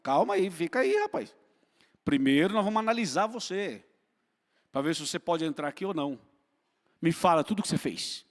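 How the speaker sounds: mock stern father holding the son at the door; a hint of a cold, judging father. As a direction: bar the way like a suspicious gatekeeper. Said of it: "O pai não fala assim".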